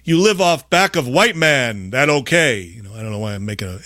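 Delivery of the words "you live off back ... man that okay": a hint of an Indian accent, mocking. Podcast guest mocking a caricature in an Indian accent. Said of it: "an Indian voice".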